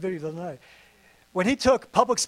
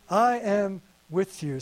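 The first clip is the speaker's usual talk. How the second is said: slow quiet promise; 2 semitones lower, slower than usual. Acted. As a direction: let the words sink in slowly. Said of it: "The Lord says".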